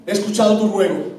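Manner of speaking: solemn voice of God. Pretend. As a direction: speak as God, solemnly granting. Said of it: "el Señor a mí me mire con seriedad diciendo". (Dios hablándole a Felipe con voz grave y solemne)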